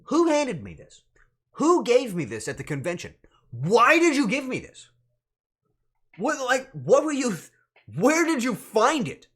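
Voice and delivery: loud, high-pitched exasperated demand; mock outrage. Streamer confronts whoever gave the awful chicken, mock outrage. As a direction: hurl indignant questions at the gift giver. Mock interrogation of gift giver.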